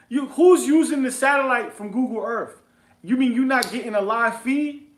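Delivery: loud, high scoffing disbelief; incredulous questioning. Retold or imitated. Investor challenging the cat over Google Earth, incredulous.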